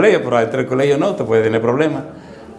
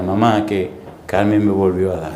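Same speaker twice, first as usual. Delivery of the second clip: put-on little boy telling on sister; 8 semitones lower than usual. Himself as complaining little boy.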